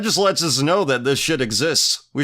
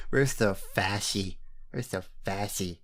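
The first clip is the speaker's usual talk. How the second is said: mock murmur; 4 semitones lower, 8 dB quieter than usual. Mocking chant after laughing.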